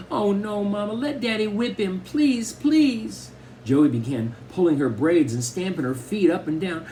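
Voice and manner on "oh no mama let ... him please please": put-on very high-pitched begging child; frantic panic. A narrator's reading. Daughter saw the Vaseline, begs mother in a panic. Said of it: "saw the Vaseline and went crazy".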